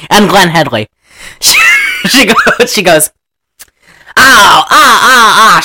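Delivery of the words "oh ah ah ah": loud, high "ah ah ah" laugh; hammed-up, spelled-out cackle; mock laugh. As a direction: imitate a woman's showy laugh. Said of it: "She's laughing".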